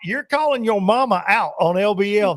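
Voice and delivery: high, laughing mock scold; laughing tease. Real, not acted. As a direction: tease him while laughing. Teasing friend through laughter.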